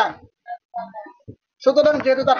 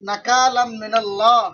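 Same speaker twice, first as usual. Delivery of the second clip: slowly drawn-out Arabic syllables; slow dictation. Shown as a demonstration. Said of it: "আমি তো আস্তে আস্তে বলতাছি".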